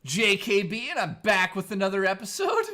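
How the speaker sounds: imitating another host's intro; Metal Jesus intro impression. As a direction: parody a YouTuber's opening line. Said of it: "here's his intro".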